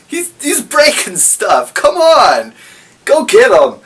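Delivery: high, hammed-up orders to the troops; commander ordering army. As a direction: bark orders in a silly high voice. Alfred urging army on.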